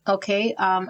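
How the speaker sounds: talking with a numb mouth after the dentist. Real, not acted. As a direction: speak as if your mouth is still numb. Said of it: "I might sound a little funny 'cause I went to the dentist".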